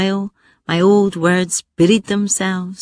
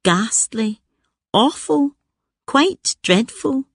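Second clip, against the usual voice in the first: posh English; 4 semitones higher than usual. Retold or imitated. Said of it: "New words marched in".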